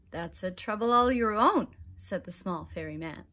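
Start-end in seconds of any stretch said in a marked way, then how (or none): 0.1-1.7 louder, smug leprechaun. Acted. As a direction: toss it back at him slyly. Leprechaun mocking Conor.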